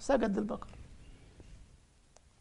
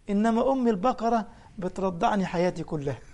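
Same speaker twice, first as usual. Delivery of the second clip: laughing. Real, not acted.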